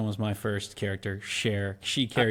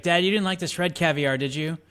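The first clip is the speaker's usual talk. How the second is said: higher, louder daughter addressing her dad; quoting Cher; 6 semitones higher, 4 dB louder than usual. Acted. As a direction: play the teen asking Dad. Acting out Cher's movie line.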